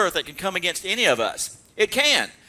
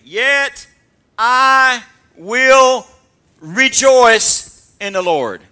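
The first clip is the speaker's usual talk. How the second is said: loud, slow, ringing proclamation; booming, drawn-out rejoicing; preaching at full force; 5 semitones higher, 11 dB louder, much slower than usual. Acted. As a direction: shout it as triumph. Preacher proclaiming scripture climax.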